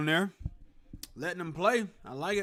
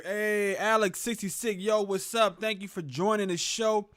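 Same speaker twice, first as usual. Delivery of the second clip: upbeat greeting; 5 semitones higher, 4 dB louder, slower than usual. Real, not acted. Greeting a chat viewer.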